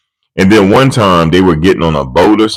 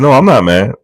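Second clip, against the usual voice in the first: higher, defensive, odd voice; hammed-up grumpy dad; mock denial; 7 semitones higher than usual. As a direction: deny it too quickly. Man denying it.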